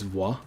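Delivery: "Voir" as VWAH; "Voir" ending on an open AH; French pronunciation. Shown as a demonstration. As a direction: say "Voir" French-style, without a hard R.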